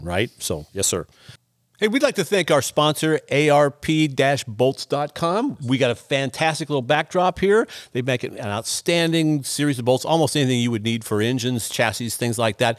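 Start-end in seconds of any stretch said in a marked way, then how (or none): 1.8-12.8 sponsor read. Real, not acted. Reads a sponsor message.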